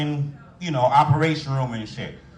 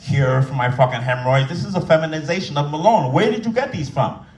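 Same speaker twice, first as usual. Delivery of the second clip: mock outraged rant. Rant at nurse.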